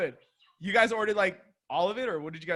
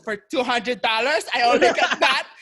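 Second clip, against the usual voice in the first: imitating mom's loud complaint; 3 semitones higher, 6 dB louder than usual. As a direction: complain out loud like an appalled mom. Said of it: "she said that out loud".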